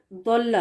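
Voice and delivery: ضل slowly as "Dawl-la"; heavy Daad. Shown as a demonstration. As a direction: model ضل with a thick emphatic d. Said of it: "داد کے ساتھ".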